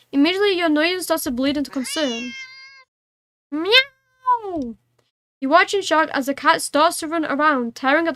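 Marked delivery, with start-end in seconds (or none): 3.5-4.8 high, long drawn yowl; wild meow. Pretend. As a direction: yowl like a frenzied cat. Cat goes wild.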